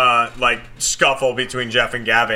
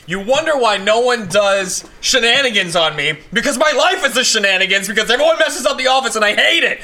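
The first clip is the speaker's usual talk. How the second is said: rising higher, building imitated rant; mock furious rant; 7 semitones higher than usual. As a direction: ham up the office martyr's rant. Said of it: "And he goes".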